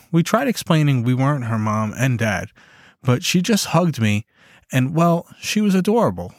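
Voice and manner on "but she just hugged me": ordinary delivery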